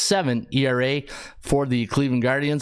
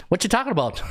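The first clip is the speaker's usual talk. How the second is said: lightly put-on Newfoundland accent, pitched higher; playful Newfoundland-accented retort; Newfoundland twang; 5 semitones higher, faster than usual. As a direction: imitate an East Coast Newfie twang. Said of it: "a different twang when they speak".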